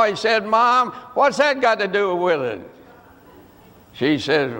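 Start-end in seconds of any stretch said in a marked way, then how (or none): 0.4-2.6 mildly protesting son, falling at the end; retold protest. Son questions mom's advice about the Bible, protesting. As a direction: object to mother's advice, lightly acted.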